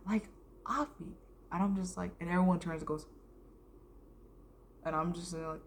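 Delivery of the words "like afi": lightly voiced teacher, a little higher; imitated teacher. Teacher singling out a pupil on skin colors, lightly imitated explaining voice. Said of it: "the teacher was talking about skin colors".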